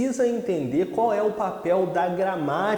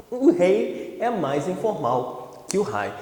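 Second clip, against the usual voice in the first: slow repeat; slower than usual. Shown as a demonstration. Teacher repeating the rule, slow and calm. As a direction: say it once more, calmly and slowly.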